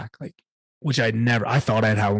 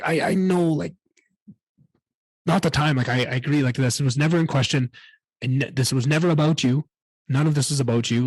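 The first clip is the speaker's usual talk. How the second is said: pleading reassurance; 3 semitones higher than usual. Retold or imitated. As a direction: insist it was never about him. Reassuring dad in parked truck.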